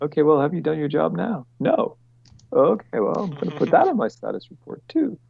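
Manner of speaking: high-pitched mock project-manager check-in; mock nagging. Mock exchange between PM and worker.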